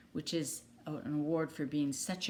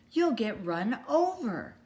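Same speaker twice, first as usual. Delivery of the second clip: higher, louder flustered duck; flustered warning; 4 semitones higher, 4 dB louder than usual. Acted. Missus Mallard scolding about the cars, flustered. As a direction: still in a dither, warn him. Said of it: "all of a dither".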